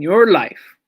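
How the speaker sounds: a whispered English gloss. Shown as a demonstration. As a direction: whisper Your life. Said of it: "Ki patapisen".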